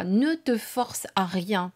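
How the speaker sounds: slow, each word weighed; slow it down and insist gently; slow, insistent. Shown as a demonstration.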